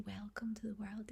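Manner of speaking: hushed, tender near-whisper; tender welcome. Retold or imitated. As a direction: greet a newborn softly. Greeting her newborn in memory.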